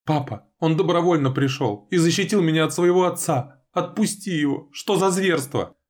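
high, loud desperate plea; pleading daughter. A narrator's reading. Daughter begging her father to let Dima go, high and desperate. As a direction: beg father to release him.

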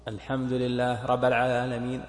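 رب recited as raba, its b left single; dropped shadda. Shown as a demonstration. Teacher showing omitted shaddas, رب with a single b. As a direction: recite الحمد لله رب العالمين without doubling the b of رب. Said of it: "ترك التشديدات".

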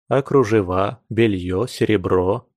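usual speaking voice

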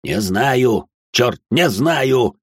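exasperated father, drawn out and forceful; barked outburst. Acted. Father answering his frightened wife, barking. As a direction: bark it in frustration, slowing down. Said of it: "гаркнул отец".

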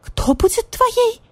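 very high, slow shocked squeak; astonished cat. Acted. Marquise cat shocked at badger-cat's claim, high squeak. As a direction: gape in disbelief.

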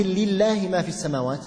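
"لله" with a thin, light lam. Shown as a demonstration. Teacher gives the example with the softened lam. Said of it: "مثل".

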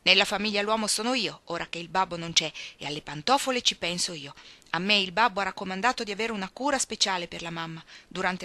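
decisive. Acted. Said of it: "ma Joe la interruppe decisa". (in tono deciso, più forte)

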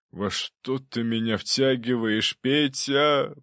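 slow, drawn out groan of a question; a slumped governor moaning at his aide. A narrator's reading. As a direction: moan in despair. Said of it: "простонал губернатор".

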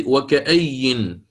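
وكأي drawn out slowly, stopping on the stressed ya; pause on the ya. Shown as a demonstration. Teacher to students, demonstrating the pausal form slowly. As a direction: say وكأي slowly, ending on a doubled ya. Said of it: "يقف أبو عمرو البصري على الياء".

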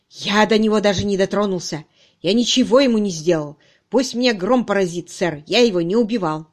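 loud, emphatic protest of innocence; frightened, insistent suspect; desperate denial. Acted. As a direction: swear it desperately. Suspect swears his innocence.

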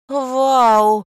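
loud, high delighted yell; excited shriek. A narrator's reading. Girl sees a gold gift box and shrieks with delight. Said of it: "завопила Леся".

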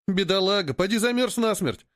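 high-pitched sympathetic lament; mild, sighing commiseration; pitying sigh. A narrator's reading. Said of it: "вздохнул Поганка".

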